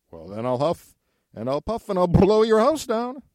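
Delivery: building loud wolf threat. Acted.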